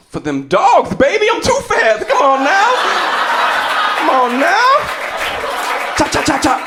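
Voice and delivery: high, loud boastful coach; imitating the coach. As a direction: shout it like a bragging coach. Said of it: "He's like".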